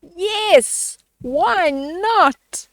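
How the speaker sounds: high, eager agreement; eager yes. Acted. Sisters finally agreeing to fly with Tina, high and eager. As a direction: say yes with sudden delight. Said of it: "they said something they had never said before".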